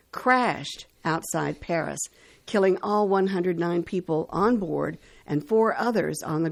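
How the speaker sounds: measured announcer read with pauses before names; radio history read. Acted. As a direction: read out the dates and facts like a radio host. Reads today in history on radio.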